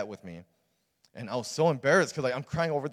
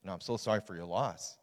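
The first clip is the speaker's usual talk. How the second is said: softer, understated consoling words; retold empathy; 2 semitones lower, 4 dB quieter than usual. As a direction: gently retell a pastor's sympathy. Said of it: "he empathized and he shared".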